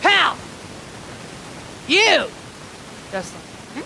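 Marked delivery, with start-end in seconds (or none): 0.0-2.3 acted drunken call; speaking drunk back. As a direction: holler back at a drunk in his own language. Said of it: "we do speak alcoholic here".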